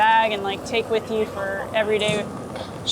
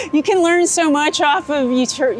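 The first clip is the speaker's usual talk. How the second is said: laughing; 4 semitones higher than usual. Real, not acted. Laughing about YouTube University.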